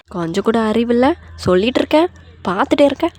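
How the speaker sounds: hammed-up aunt's telling-off; scolding aunt. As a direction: scold like an outraged older relative. Aunt scolds the daughter-in-law.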